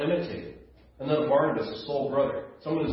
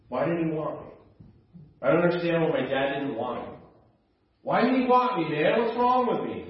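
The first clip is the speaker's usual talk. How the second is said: imitating sobbing plea; 3 semitones higher than usual. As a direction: plead like a grown man sobbing over his father. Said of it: "as he sobbed".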